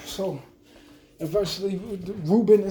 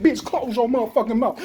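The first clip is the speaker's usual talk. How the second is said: retold threats; 3 semitones higher, 3 dB louder than usual. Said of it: "I said".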